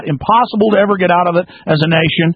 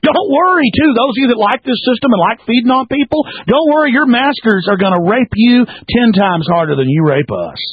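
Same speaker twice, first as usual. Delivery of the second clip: sarcastic taunt; 5 semitones higher than usual. Real, not acted.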